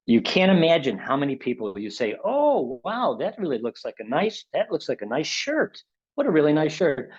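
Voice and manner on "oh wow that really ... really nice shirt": higher, gushing over a nice shirt; mock gushing compliment on a shirt; admiring compliment. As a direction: pay a warm, eager compliment. Acting out giving a compliment.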